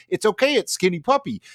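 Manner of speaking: high, lilting mock reassurance; high sing-song it's okay; mock soothing girl. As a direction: soothe him like it's nothing.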